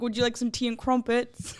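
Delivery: light attempt at a posh British accent; a half-hearted British accent, tea and crumpets style; mock British accent. Guest doing a quick mock British accent for the hosts. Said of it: "attempting like a U K accent".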